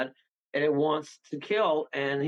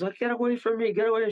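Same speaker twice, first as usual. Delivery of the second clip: mildly acted panic, higher pitch; a touch of alarm, pitched up; retold freak-out; 5 semitones higher, faster than usual. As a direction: imitate someone frantically fending it off. Retold freak-out while gasping for air.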